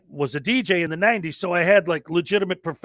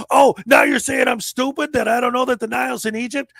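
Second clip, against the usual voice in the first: offended retort; 6 semitones higher than usual. Retold or imitated. Retold quarrel, offended guy snaps back.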